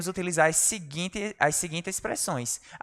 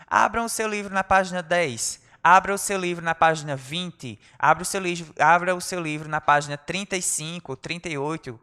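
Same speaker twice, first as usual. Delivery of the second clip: teacher giving instructions. Retold or imitated. Teacher voiced giving orders.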